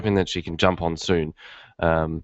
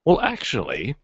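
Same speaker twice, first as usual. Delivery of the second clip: eager stranger; slower than usual. Retold or imitated. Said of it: "they're like".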